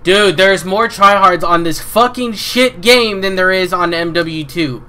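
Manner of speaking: slow, loud, high, fed-up rant; angry rant. Real, not acted. Gamer ranting about tryhards, slow angry complaint. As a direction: spell out each word in anger.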